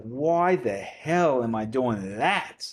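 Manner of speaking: slow, drawn-out disbelief; acted self-questioning. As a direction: stretch the question out, baffled at yourself. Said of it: "you're like".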